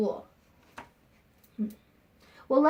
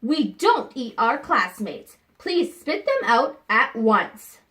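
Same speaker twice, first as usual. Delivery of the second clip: a hint of a stern teacher, a bit louder; 4 dB louder, slower than usual. Missus Noodleman scolding Penelope in class, mildly stern. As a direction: scold the new pupil firmly, not much voice change. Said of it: "said Missus Noodleman".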